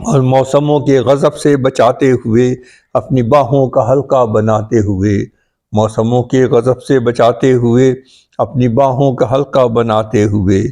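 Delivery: measured, metrical mushaira delivery; poetry recitation. Acted. Poet shares his ghazal with appreciative friends, reciting. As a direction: recite each line in rhythm, repeating it for the listeners.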